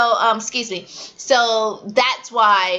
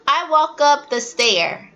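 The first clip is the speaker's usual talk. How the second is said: mimicking student; 4 semitones higher than usual. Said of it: "They'll, like, say".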